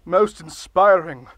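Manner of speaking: grand, pompous speechmaking; blustery pompous mayor. Acted. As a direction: deliver it like a self-important ruler. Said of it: "Can you maybe not shout".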